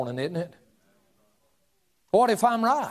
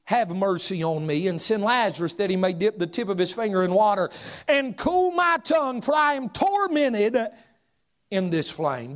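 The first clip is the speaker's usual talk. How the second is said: rich man crying out. Acted. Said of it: "he cried and said".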